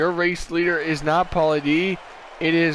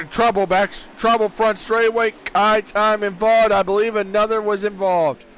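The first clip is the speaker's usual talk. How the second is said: higher and louder, calling trouble on track; urgent race commentary call; excited crash call; 4 semitones higher, 4 dB louder than usual. Real, not acted. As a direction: announce the wreck with urgency.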